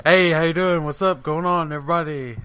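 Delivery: big loud cheerful hello; loud hyped greeting. Acted. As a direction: shout the greeting like a showman.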